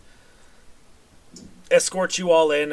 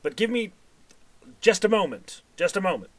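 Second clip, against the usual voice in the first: louder, higher, impatient; booming voice; 5 semitones higher, 4 dB louder than usual. Acted. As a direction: grudgingly boom permission to the guard. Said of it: "the sort of booming voice go".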